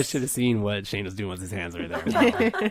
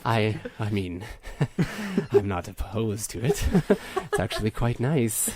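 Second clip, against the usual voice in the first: low, faintly sultry, amused; a little sultry with small laughs; lightly sultry; 3 semitones lower than usual. Acted. Android pleased with her new voice, lightly sultry. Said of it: "I'll do a sultry voice".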